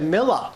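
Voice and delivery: "Miller" said with an "ah" ending, no R; mimicked Boston Miller. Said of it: "No, you said Miller".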